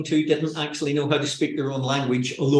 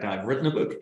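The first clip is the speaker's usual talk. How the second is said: dropped low voice; 5 semitones lower, faster than usual. Acted. Author answering in a radio interview after a cough, low-voiced. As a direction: let the voice sink deep after coughing. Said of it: "your voice drops about an octave".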